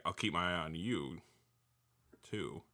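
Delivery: low, soft private aside; quiet, low words meant only for himself; talking to himself. Pretend. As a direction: say it under your breath. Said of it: "he's telling himself".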